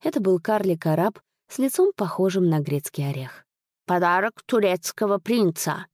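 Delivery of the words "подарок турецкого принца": slushy sh for s; lisping dwarf servant. Acted. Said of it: "шепеляво произнёс лакей". (шепелявый голос лакея)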